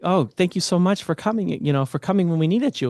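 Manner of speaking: imitating a delighted, thankful mother; retold happy thanks. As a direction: relay her thanks with a happy lift. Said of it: "she's so happy. And she's like".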